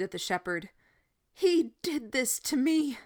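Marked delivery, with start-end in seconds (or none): 1.3-3.0 accusing. A narrator's reading. Boy accusing the shepherd.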